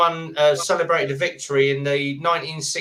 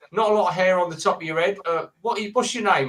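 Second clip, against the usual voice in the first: mock Australian accent; 4 semitones higher, faster than usual. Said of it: "people doing the accent".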